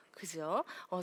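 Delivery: usual speaking voice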